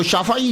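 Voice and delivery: شافعی said as "sha-fa-ee", open A after F; relaxed شافعی without the throaty ayn; easy everyday pronunciation. Shown as a demonstration. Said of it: "وہ بڑا آسان ہے ہمارے لفظ".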